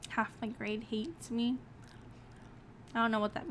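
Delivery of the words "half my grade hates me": softer, slower echo of the line; stunned repeat. Real, not acted. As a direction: repeat it under your breath, taken aback. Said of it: "repeats the line quietly, stunned".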